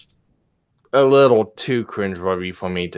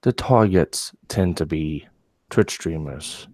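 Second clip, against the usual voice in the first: low sexy voice. Pretend. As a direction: read it in a low seductive tone. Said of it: "they want to hear the voice".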